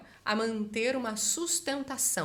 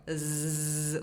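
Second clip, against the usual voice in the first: low steady bee-like zzz; buzzing z; 6 semitones lower, 4 dB quieter than usual. Shown as a demonstration. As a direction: buzz like a bee. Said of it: "o som do Z".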